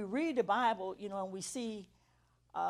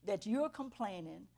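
God's emphatic rebuke; 3 semitones higher, 6 dB louder, slower than usual. Retold or imitated. God correcting a complainer, slow and building to forceful. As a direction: preach it slowly, landing hard on the final words. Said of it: "He said".

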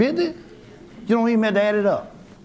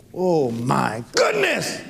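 laughing exclamation; 3 semitones lower, much slower than usual. Real, not acted. Laughing at his own excitement.

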